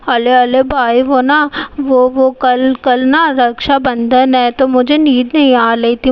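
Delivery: put-on small girl's lisping plea, slow and drawn out; childish lisp. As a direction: play a sleepy little sister who lisps and whines. Little sister pleads at night.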